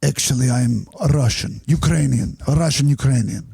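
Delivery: lightly imitated Russian man; hedging, Russian-accented confession. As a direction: admit it in a put-on Russian accent. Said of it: "it's hard with that accent".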